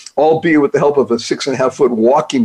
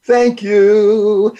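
thanks anyway; 6 semitones higher than usual. Pretend. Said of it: "somebody slams the door on you".

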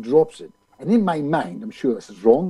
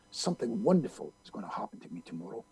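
softer, lower voice, imitating the friend; low-key recital; 5 semitones lower, 12 dB quieter, faster than usual. Friend quietly teaching Bob an affirmation, low-key recital. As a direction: recite the phrase quietly and simply.

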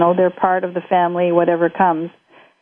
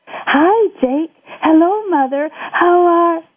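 cheery mother; 10 semitones higher, slower than usual. Acted.

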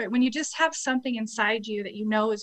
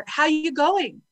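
put-on Australian accent; 5 semitones higher, slower than usual. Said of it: "My favorite Australian saying".

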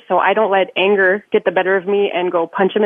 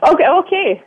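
higher, slightly Canadian okay; Canadian-sounding accent; 7 semitones higher than usual. Real, not acted. Caller agrees with hosts, in a slight Canadian accent. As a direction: let a Canadian accent slip in. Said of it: "like, Canadian there for a minute".

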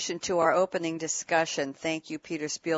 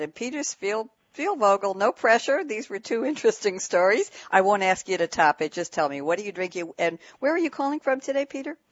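playful teasing; 3 semitones higher than usual. Real, not acted. Host playfully pressuring the guest.

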